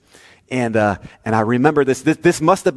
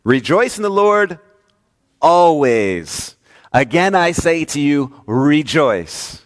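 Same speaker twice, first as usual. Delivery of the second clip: higher, preached proclamation of Paul; Paul quoted; 3 semitones higher, slower than usual. Acted. Pastor voicing Paul's command to the church, ringing and higher. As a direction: proclaim it like the apostle himself. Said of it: "Paul says".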